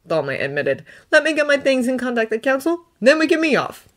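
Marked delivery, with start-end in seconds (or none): 1.1-3.9 put-on higher, earnest young Jedi voice; Thonne's voice. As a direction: lift the voice up for Thonne, sincere and pleading. Thonne prepares.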